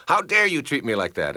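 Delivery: how-dare-you outburst, half acted; indignant accusation. Acted accuser hitting volleyball at you.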